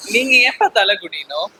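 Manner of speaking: crying as the question comes out; tearful plea. Acted. Child crying to father not to bow his head in shame.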